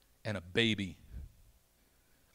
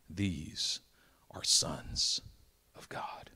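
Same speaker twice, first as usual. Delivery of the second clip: whispered point; 6 semitones lower, much slower than usual. Acted. Preacher whispering the lesson to the congregation. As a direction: drop to a secret.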